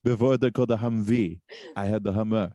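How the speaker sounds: lightly put-on Austrian action-star voice; Arnold impression. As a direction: deliver it as a mock Austrian boast. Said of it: "me talking like him".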